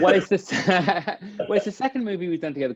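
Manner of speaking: laughs through the start of the answer; breaking into a laugh mid-reply. Real, not acted. Father laughs answering about working with his daughter.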